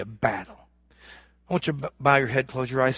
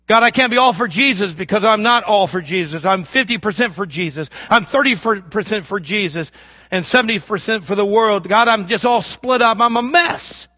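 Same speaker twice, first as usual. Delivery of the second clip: mock confession; 3 semitones higher, 4 dB louder than usual. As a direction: act out owning up to God. Acting out a confession to God.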